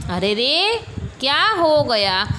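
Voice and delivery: lightly acted concerned exclamation; a touch of startled concern; demonstrated surprise. Shown as a demonstration. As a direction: exclaim it as a classroom example. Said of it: "आश्चर्य".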